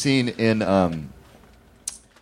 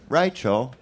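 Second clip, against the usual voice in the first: Rachel in a lightly put-on Australian accent, slowly; 3 dB quieter than usual. Shown as a demonstration. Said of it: "say the name Rachel in Australian".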